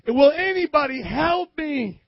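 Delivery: high, slow, pleading cry; retold plea. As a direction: call out as if no one will stop. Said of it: "I heard him cry out again".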